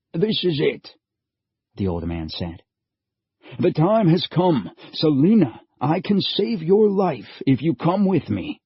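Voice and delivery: put-on old stranger urging haste as the floor shakes; urgent old man. A narrator's reading. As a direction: hurry them along. Old man announces the end.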